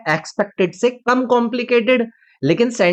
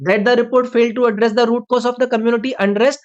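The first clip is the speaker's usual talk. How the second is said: slow reread; 3 semitones higher, much slower than usual. Shown as a demonstration. Rereads the subject clause.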